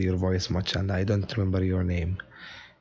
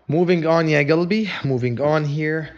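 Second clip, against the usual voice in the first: brisk cheer; 5 semitones higher, 4 dB louder than usual. Real, not acted. Teacher loudly pushes class forward.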